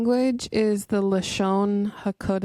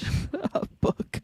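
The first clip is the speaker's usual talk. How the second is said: whispered mock retort; whispered echo; slower than usual. Co-host echoing the line to the book in a whisper. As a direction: breathe it as a joking aside.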